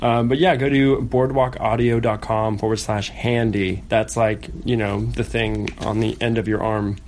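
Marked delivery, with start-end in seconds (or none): 0.5-3.8 slow clear ad read. Shown as a demonstration. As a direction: spell out the web address slowly. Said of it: "ad read".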